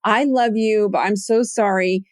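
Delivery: apologetic confession. Retold or imitated. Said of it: "literally say to my husband".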